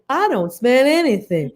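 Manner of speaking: slow, stretched echo of a line; playful echo. Retold or imitated. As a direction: draw it out in mock earnest. Echoes castmate's line in bit.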